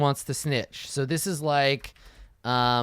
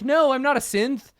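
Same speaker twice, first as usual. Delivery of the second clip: pleading denial; 8 semitones higher than usual. Retold or imitated. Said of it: "they'll be pleading".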